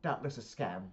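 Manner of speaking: put-on UK-accented verdict; Victor in British accent. Visitor dismissing the rabbit's story, British accent. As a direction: give the neighbour a British voice. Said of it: "I speak in the accents 'cause it's U K".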